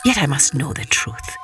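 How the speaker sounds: king musing. Acted. King doubting his bride, low and pondering. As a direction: think it through like a wary king.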